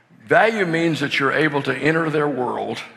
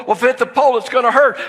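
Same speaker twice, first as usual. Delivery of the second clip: put-on anxious little girl; 7 semitones higher, 4 dB louder, much faster than usual. Daughter fretting about the pole.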